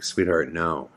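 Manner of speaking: gentle but firm no. Retold or imitated. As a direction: let her down kindly. Leaning down to the child.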